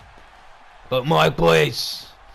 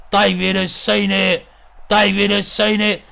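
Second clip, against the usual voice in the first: raised, insistent ringside call; mounting suspense; 5 semitones higher, 3 dB louder than usual. Acted. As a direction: build urgently towards the coming blow. Commentator builds tension before the hit.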